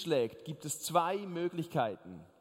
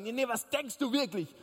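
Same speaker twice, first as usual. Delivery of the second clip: mildly annoyed wife; 5 semitones higher than usual. Retold or imitated. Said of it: "dann werden die Frauen ein bisschen wütend".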